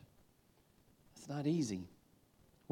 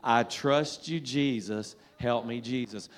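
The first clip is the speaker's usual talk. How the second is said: "I trust you, Jesus" louder, rising on "trust"; louder recitation; 4 dB louder than usual. Shown as a demonstration. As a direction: lead the room louder this time. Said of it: "come on, you can do better than that".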